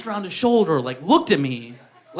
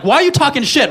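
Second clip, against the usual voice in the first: mock indignant; 6 semitones higher, 3 dB louder than usual. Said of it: "I'm like".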